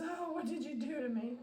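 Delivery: high, plaintive puppy voice; playful high pet voice; speaking for puppy. Pretend. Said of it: "He says".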